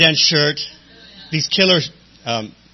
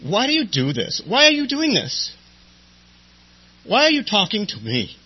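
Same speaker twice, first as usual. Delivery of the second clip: crying; 8 semitones higher than usual. Retold or imitated. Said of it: "I just started crying".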